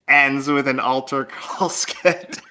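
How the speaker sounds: slow, holding back real laughter; trying to get it out before cracking up; failing straight face. Real, not acted. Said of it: "I can't say that with a straight face".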